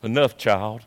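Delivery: low, hushed ancestor stepping in; quiet elder's gentle warning; ancestors' voice. Acted. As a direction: softly call a halt, voice dropped low. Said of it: "Till the ancestors tell you".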